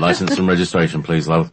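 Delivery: London police officer. Acted. London policeman to woman driver, London accent. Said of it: "That's London".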